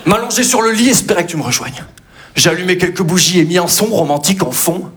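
comic love poem recited; mock poem recital. Comic recites a silly love poem to Juju.

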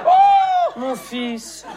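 a sudden, very high and loud "Oh"; mock anguished oh. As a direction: yelp it out in hammed-up dismay. Exaggerated cry of dismay.

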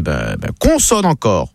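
put-on low, slow Parisian accent. Parisian asking for another letter, Parisian accent. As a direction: draw it out low, Parisian-style. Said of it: "Le Parisien".

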